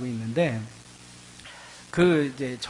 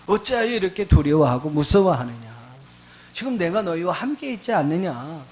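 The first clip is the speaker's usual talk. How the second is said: preacher's raised, scolding questions; stern rebuke; 5 semitones higher, 5 dB louder than usual. Retold or imitated. Jesus to frightened disciples after the storm, stern acted rebuke. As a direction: voice Jesus rebuking, building higher and insistent. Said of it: "제자들을 꾸짖으시는 겁니다".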